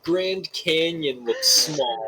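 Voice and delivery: high-pitched, incredulous laughing protest; laughing exaggeration. Real, not acted. Player teases a friend's wild conclusion, laughing in disbelief. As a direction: overstate it through laughter, drawing out the words.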